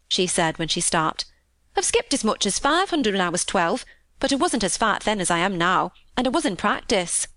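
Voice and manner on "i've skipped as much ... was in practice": lilting Yorkshire maid, happily recounting; cheerful country housemaid. Acted. Maid telling Mary of her day out, happy. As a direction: chat on as a contented country maid. Voices Martha in dialect.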